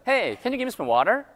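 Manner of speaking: casual run-together American English; linked-up American request; American accent. Shown as a demonstration. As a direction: ask like an American, "water" with a flapped t. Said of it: "미국 사람도 어때요?".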